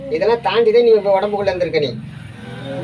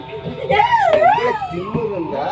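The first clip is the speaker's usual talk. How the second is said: very high, drawn-out roar; furious exorcist shout; much slower than usual. Real, not acted. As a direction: bellow the rebuke slowly. Exorcist rebukes the spirit. (கோபமான கூச்சல்)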